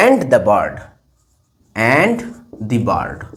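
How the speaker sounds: low-pitched, with long pauses while writing; word-by-word dictation. Shown as a demonstration. Teacher writing the last words, word-by-word dictation.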